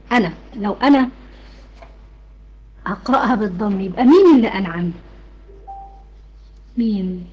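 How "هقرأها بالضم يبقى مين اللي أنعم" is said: usual speaking voice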